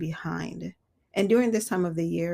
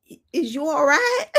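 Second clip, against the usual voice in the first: mock concern; 9 semitones higher, 8 dB louder than usual. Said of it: "I'm like".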